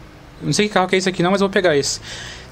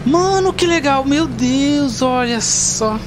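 excited; 6 semitones higher, much slower than usual. Real, not acted. Thrilled by taxi mode.

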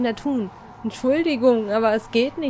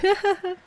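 nervous high laugh; 10 semitones higher than usual. Real, not acted.

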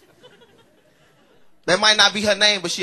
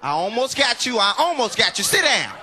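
louder, higher mama yelling after a near miss; mock furious mama; 5 semitones higher, 7 dB louder than usual. Mama yelling at her son after throwing a skillet, mock furious. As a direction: bark it at the kid you just missed.

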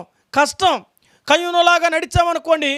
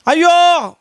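louder lament of woe; loud woe cry; 3 semitones higher, 5 dB louder, much slower than usual. Acted. Preacher crying out woe over the sinners, loud.

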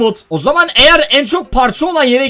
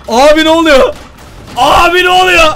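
yüksek sesle hayretle sorar; real şaşkınlık; 5 semitones higher, 4 dB louder than usual. Real, not acted. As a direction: ne olduğunu anlamaz gibi haykır. (şaşkın izleyici gibi hayretle bağırış)

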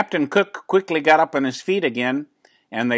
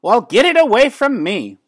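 much higher and louder, shooing it away; alarmed neighbor lady; 10 semitones higher, 6 dB louder than usual. A narrator's reading. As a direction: push the bird off in a fluster. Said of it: "said Missus Callahan".

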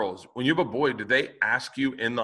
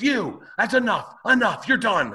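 scolding neighbor; 10 semitones higher, 4 dB louder than usual. Retold or imitated. Neighbor ordering the skateboarder to stop, high scolding mimicry. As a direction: scold him like a fed-up neighbor. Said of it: "She goes".

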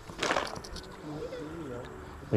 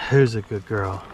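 pet talk; 6 semitones lower, 4 dB louder than usual. Real, not acted. Cooing to a pet bird.

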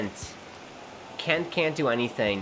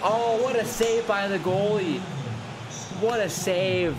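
excited yell; 9 semitones higher than usual. Real, not acted. Gamer reacting to his goalie's save, excited shouting. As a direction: cry out at the save. Shot saved, gamer erupts.

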